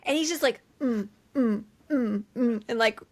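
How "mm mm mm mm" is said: short, spaced imitated grunts; repeated mock thrusting grunts. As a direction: mimic small grunts of exertion. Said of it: "he's, like, thrusting".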